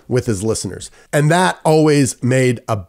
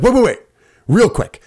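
pleading to stop him hanging up; urgent plea; 7 semitones higher than usual. Retold or imitated. Caller begging the radio host to stay, urgent. Begging Lin not to hang up.

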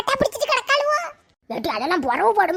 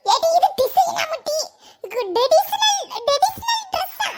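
laughing mockery; 8 semitones higher, slower than usual. Mocking the odd dress.

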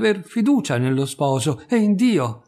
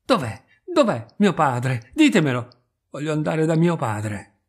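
frantic; 4 dB louder than usual. Acted. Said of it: "come impazzita".

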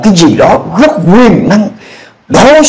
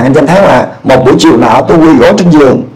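normal talking voice

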